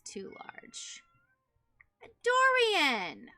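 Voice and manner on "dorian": loud high call to the dog. Real, not acted. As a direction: call the dog's name sharply. Calling the upset dog.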